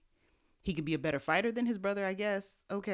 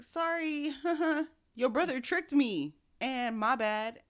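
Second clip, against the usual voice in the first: put-on sheepish old father; 8 semitones higher, slower than usual. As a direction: play Isaac shrugging off the mistake with a giggle. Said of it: "and Isaac is like".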